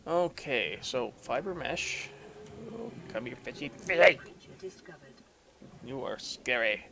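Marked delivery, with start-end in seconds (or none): 2.7-4.2 talking to fish. Real, not acted. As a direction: call the fish over. Coaxing a fish closer.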